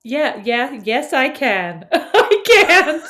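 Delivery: slow, drawn-out mock American accent; attempted American accent. Shown as a demonstration. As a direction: try hard at an American accent. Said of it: "can you try to do it without wrinkling".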